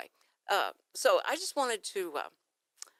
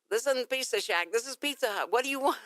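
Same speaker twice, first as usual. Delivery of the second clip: louder curt clerk; 4 semitones higher, 5 dB louder than usual. Retold or imitated. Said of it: "he says".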